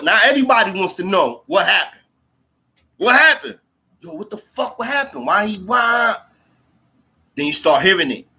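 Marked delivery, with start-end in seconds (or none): 3.0-6.2 high-pitched imitation of inmates calling out; clamouring inmates. Inmates asking each other what happened, imitated high-pitched clamour. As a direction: mimic urgent questions thrown from cell to cell.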